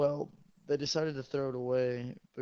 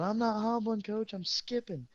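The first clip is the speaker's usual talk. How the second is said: higher, louder, slow sassy retort; cheeky yell; 9 semitones higher, 3 dB louder, slower than usual. Retold or imitated. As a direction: yell back at the coach. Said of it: "So I yelled".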